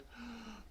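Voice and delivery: soft, breathy yawn sound; imitated sleepy yawn; mimed yawn. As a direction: act out a sleepy intake of breath. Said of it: "they yawn".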